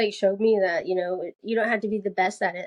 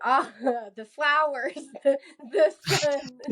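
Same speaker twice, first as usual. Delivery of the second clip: mock dreamy sigh at the scenery, higher and laughing; dreamy gazing; 5 semitones higher than usual. Runner mocking her own dreamy gazing while training. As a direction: moon over the flowers and sun with a giggle. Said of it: "stop looking around and being".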